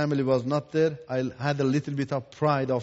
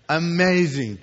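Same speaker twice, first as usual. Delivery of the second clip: laughing; 3 dB louder than usual. Real, not acted. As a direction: chuckle as you repeat "Amazing.". Repeats it, laughing.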